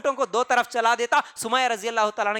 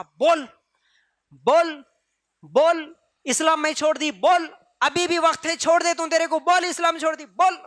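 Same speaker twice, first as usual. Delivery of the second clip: raised, higher, commanding "بول" again and again; mock tormentor demand; 4 semitones higher than usual. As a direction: hammer the demand like a bully. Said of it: "بولتا". (غصے میں حکم دیتی اونچی آواز)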